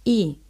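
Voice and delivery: "I" als losse, aangehouden klank; semivocal Y-klank. Shown as a demonstration. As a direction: demonstrate the sound "I" as a y glide. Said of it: "Así encontramos el sonido".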